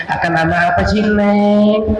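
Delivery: put-on says "Akan" for makan, cutesy babyish; lisping baby talk. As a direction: cadel baby talk dropping the m. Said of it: "ngomong kagak cadel aja dicadel-cadeli".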